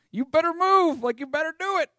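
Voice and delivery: hammed-up bossy guard shooing a loiterer; mock security guard. A guard tells loiterers to move, hammed-up bossy voice. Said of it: "They're just like".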